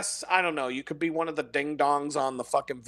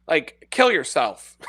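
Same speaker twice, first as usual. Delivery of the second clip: laughing; 5 dB louder, slower than usual. Real, not acted. Laughing through the insult.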